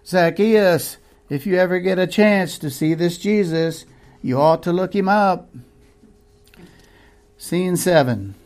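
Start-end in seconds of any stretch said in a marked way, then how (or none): 0.1-5.5 higher, calling down the street; calling after him. Acted. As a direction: call out to someone running away. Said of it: "he yelled at the fleeing figure".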